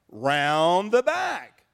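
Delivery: slow, blunt brush-off; gruff innkeeper dismissal, drawn out; curt innkeeper. Acted. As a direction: send them away slowly and flatly. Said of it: "And he said".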